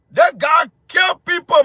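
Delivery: furious on-air accusation; angry shout. Real, not acted. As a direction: shout the charge at him.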